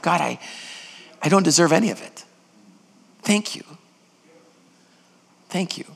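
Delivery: a penitent's prayer, trailing to a hush; repentant prayer. Acted. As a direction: pray it humbly, sinking to a murmur.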